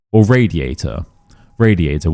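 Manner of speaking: "radiator" ending on a schwa, R dropped; no final R. Shown as a demonstration. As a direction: say "radiator" with no R at the end. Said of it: "but we're not saying it".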